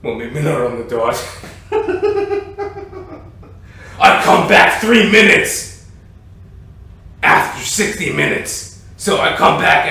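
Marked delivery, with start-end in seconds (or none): none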